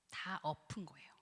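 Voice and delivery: hushed whisper. Acted. Preacher whispering the point to the congregation. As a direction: drop to a secret whisper.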